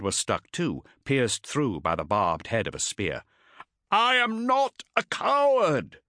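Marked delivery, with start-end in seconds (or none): 3.9-6.0 very high, loud, slow yell; defiant yell. Acted. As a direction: roar it with final defiance. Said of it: "yelled Cestus".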